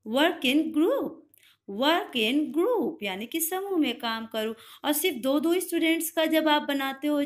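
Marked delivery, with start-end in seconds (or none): 0.1-2.9 slow teacher model. Shown as a demonstration. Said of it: "तो teachers बोलते हैं आपको".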